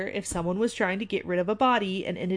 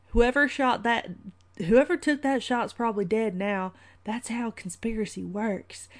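put-on old man's drawl accent; 3 semitones higher than usual. Host acting the old man from Shooter, terrible put-on accent. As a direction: put on a bad old-timer movie accent. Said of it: "let me work on this accent".

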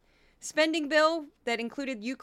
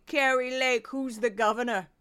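a hint of a vain politician asking; lightly voiced self-admiring question; Kari Lake impression. Kari Lake asking her mirror, lightly voiced vanity. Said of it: "and a brief Kari Lake".

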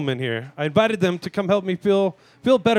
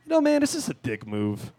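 very casual. Retold or imitated. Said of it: "I just very casually".

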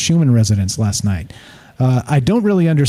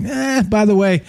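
mocking a troll; 5 semitones higher than usual. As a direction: sneer it like a rude drive-by commenter. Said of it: "be like".

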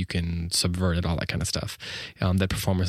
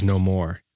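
a beat of silence, then "No more" set apart; pause before no more. Shown as a demonstration. Teacher showing the pause at the dash, set apart. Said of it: "this long dash".

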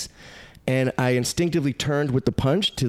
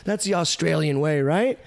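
much higher, excited call to bring the guy back; eager; 8 semitones higher than usual. Retold or imitated. Comedian calling the security to bring the attacker back. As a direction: rush it, keen to make friends. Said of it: "I'm like".

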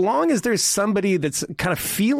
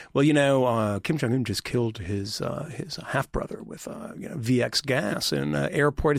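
softer, lower mocking newsman droning on; mock reporter; 3 semitones lower, 4 dB quieter than usual. Mocking a reporter badgering Sean Spicer, softer and lower. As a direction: mimic the earnest reporter, hushed. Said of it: "John Karl saying".

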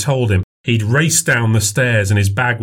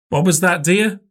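put-on older woman voice; 8 semitones higher than usual. A narrator's reading. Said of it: "mother asks".

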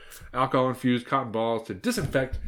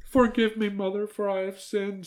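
aunt stammering; 11 semitones higher than usual. Acted. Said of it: "stammered the aunt".

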